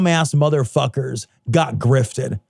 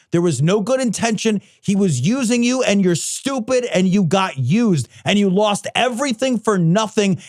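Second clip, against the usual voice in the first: heated, raised-pitch tirade easing slightly toward the end; scornful rant; 3 semitones higher than usual. Real, not acted. Podcaster telling duped followers they got used, scornful rant. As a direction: lay into them, point after point.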